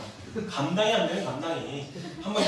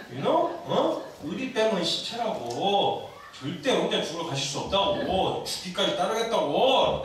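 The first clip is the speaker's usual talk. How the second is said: swaggering loyalty pledge; 2 semitones higher, 3 dB louder, slower than usual. Acted. Peter swaggers about his loyalty.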